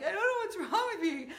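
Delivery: high, fast, half-laughing overwhelmed babble; a light take on a woman coming apart; breaking down. Retold or imitated. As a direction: play someone near tears, laughing it off high and quick. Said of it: "Or you break down and just start crying. You're like".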